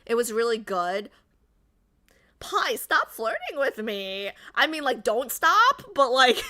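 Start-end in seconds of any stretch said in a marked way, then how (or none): 2.4-6.4 giggly, rising and louder; flustered and loving it; flustered giggle. Real, not acted. Streamer to a flirting chatter, giggly and flustered.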